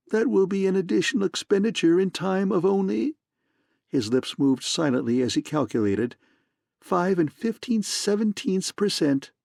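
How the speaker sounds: a hint of a throaty, smug purr; lightly voiced smug fat man purring; complacent purr. A narrator's reading. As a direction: purr it contentedly. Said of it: "His voice was a complacent, throaty purring".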